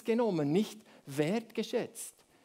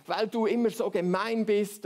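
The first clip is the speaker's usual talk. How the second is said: mock accusation; 2 semitones higher, 4 dB louder than usual. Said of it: "bewertet nicht".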